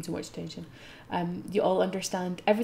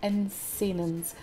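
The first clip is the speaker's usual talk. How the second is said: lore reading. Acted. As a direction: read the lore like a guidebook. Reads the game lore.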